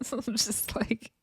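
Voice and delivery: whispered through a laugh; whispered aside. Real, not acted. Vlogger whispering to her viewers through a laugh. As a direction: drop to a whisper mid-laugh. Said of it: "unvoiced whisper".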